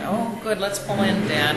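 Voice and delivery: put-on mild childish excitement; pleading kids. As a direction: kids begging dad to pull in.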